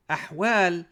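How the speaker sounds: ahwal, the breathy pharyngeal H, loud and clear; correct Arabic ahwal. Shown as a demonstration. Teacher modelling the right ahwal for learners, throaty ḥ. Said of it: "as opposed to ahwal".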